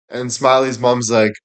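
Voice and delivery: normal talking voice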